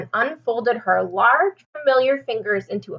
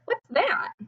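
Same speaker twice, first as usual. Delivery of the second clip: put-on curious child; 12 semitones higher, 4 dB quieter than usual. Chester asks, child voice.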